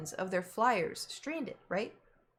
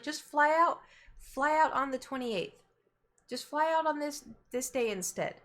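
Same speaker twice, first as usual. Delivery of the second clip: higher, pushy mom voice; mom insisting; 4 semitones higher than usual. Retold or imitated. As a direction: copy mom pressing her point. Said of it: "She's like".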